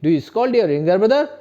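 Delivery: teacher repeats the question slowly for students. Shown as a demonstration. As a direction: say it again slowly and clearly. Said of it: "क्या बोलेंगे?".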